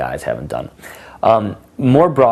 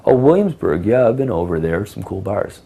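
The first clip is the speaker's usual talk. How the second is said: typical guy. Shown as a demonstration. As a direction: play the boring guy keen to agree. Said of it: "most guys aren't gonna do".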